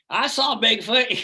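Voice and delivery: slow, high gasping "I saw Bigfoot"; mock awestruck fan. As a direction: play a wide-eyed believer, drawn out.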